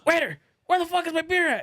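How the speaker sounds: high-pitched imitation of a rowdy customer; loud drunk homie. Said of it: "that fool was just being loud as shit".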